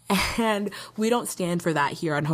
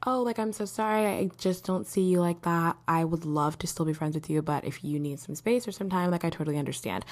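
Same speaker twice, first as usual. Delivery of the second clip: soft, kind and apologetic, getting quieter; gentle letdown; 4 dB quieter than usual. Shown as a demonstration. Vlogger demonstrating a kind rejection, soft and gentle. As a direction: let them down easy, softly. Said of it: "the way that I would probably go about it would be like".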